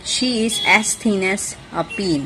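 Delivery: slow, careful reading of the example. Shown as a demonstration. Teacher reading an example sentence slowly to students. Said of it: "For example".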